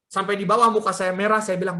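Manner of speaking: usual speaking voice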